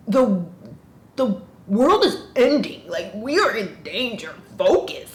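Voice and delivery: loud exasperated telling-off; exasperated scolding. Pretend. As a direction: yell at the characters to get a grip. Scolds the characters in the book.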